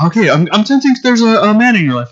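high, put-on psychic voice; fake TV medium. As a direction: act out a showman sensing spirits. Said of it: "the guy was like".

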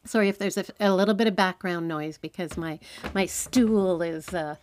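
muffled, close closet sound; recorded squeezed into a closet; inside a closet. Real, not acted. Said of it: "podcasting in the closet".

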